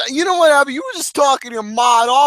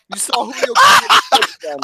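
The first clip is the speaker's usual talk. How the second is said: shouting You saw Julio Gomez's dick again high and loud; high loud teasing shout; excited shout; 11 semitones higher, 4 dB louder than usual. Real, not acted. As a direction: yell it out while laughing. Teasing shout at friend's photo.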